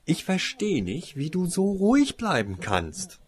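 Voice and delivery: frustrated griping. Acted. Winona gripes at Toriesa, mildly frustrated. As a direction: grumble it, fed up with her calm. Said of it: "meckerte Winona frustriert".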